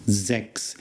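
"Sechs" starts with a z and ends in an x sound; German Sechs. Shown as a demonstration. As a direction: say "Sechs" as "zex". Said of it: "The S at the beginning is a Z sound".

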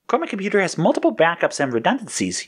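high-pitched, worried explanation; high, fretful sidekick. A narrator's reading. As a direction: explain anxiously in a high character voice. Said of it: "Yellow explained worriedly".

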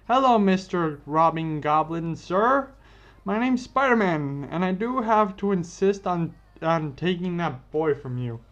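Spider-Man mock-politely demanding his friend back; mock-polite hero. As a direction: confront the villain with hammed-up politeness. Peter politely confronts the Goblin.

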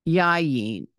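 yayin said as YAH-yeen, two clear syllables; teacher models yayin slowly: yah, yeen; Hebrew word read out. Shown as a demonstration. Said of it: "The first word here is yayin".

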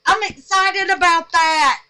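giddy with joy; giggly. Real, not acted. Excited about her soap, giggling.

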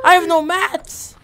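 loud shout. Real, not acted. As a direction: shout it urgently. Repeated louder.

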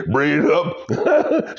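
slow, laughing "Braided it up"; laughing repeat. Real, not acted. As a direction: draw out "Braided it up" through a laugh.

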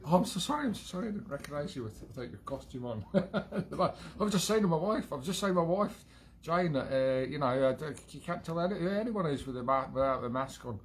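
high, laughing bad Cockney accent; hammed-up Cockney apology; terrible Cockney accent. Apologetic Londoner friend done in a terrible Cockney accent. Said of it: "terrible Cockney accent".

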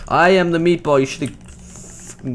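booming proud declaration; hammed-up triumphant roar; mock battle cry. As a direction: bellow it like a cartoon villain.

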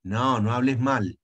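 a slow, mild mock correction; slow mock scold. Teacher mimics a pedant correcting a friend, slowly. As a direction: drag out the scolding gently. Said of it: "¿Sabe qué le dicen?".

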